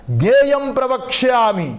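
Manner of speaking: high, ringing declaration of scripture; loud proclamation. Acted. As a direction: proclaim it forcefully, stretching the words. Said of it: "గట్టిగా". (గట్టిగా చాటి చెప్పడం)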